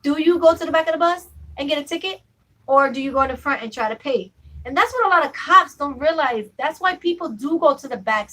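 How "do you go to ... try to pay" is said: frustrated. Retold or imitated. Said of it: "that gets me frustrated because I'm like".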